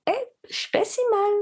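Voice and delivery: high, bright mock self-encouragement; cheery self-talk. Woman cheering herself up with a laugh. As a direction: toss it off like a pep talk to yourself.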